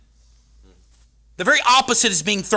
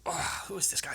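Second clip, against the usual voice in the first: hushed awed mutter; whispering onlooker; 3 semitones higher, 10 dB quieter than usual. Pretend. A mourner at the tomb wondering, whispered. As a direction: murmur it under your breath.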